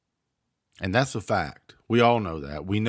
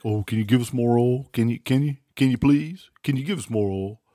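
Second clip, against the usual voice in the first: whiny pleading mock of a president begging; 3 semitones higher than usual. Host mocking the president begging OPEC, whiny pleading. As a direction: beg for oil like a pushover. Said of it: "You don't go and beg opec".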